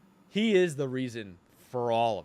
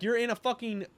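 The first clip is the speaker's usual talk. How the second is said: exasperated rant; 4 semitones higher than usual. Retold or imitated. Acting Cassian's exasperation.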